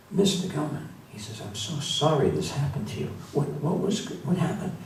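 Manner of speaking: gently acted dismay; retold sympathy. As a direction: imitate someone sorry and shocked for a hurt acquaintance. Medic upset at finding friend hurt.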